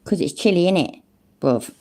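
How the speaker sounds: lightly played-up British accent; best British accent. Shown as a demonstration. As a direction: ham up the British accent a touch. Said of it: "best British accent".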